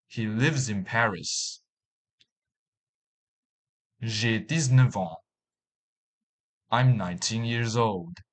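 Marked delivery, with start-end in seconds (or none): 4.0-5.2 "neuf ans" linked with a v, "neu-v-ans"; French liaison. Shown as a demonstration. Teacher demonstrating French liaison to learners. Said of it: "the following examples".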